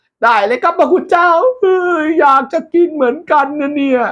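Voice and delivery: very high eager voice; squeaky messenger. Acted. Messenger agreeing to leave, very high eager.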